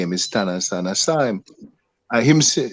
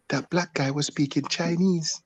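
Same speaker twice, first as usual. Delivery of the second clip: amused quote; 6 semitones higher, 9 dB quieter than usual. Retold or imitated. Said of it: "him say".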